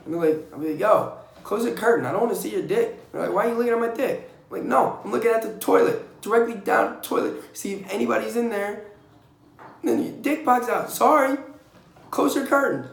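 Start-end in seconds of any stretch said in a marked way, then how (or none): 0.8-3.1 annoyed demand. Retold or imitated. Telling guys to close curtains. 3.3-4.3 defensive retort. Retold or imitated. Other guy's retort voiced. 4.6-12.9 higher, louder, rising exasperation; exasperated explanation. Retold or imitated. Explaining to the guy with the open curtain, exasperated and louder.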